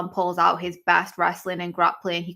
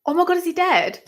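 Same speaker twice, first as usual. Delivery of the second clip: shocked gasp; 11 semitones higher, faster than usual. Real, not acted. Viewer reacting live to a brutal knockout, shocked and high. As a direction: blurt it out as the fighter drops.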